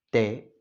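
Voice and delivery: T said crisp and loud; plain T sound. Shown as a demonstration. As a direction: hit the T hard. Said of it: "la T se pronuncia como".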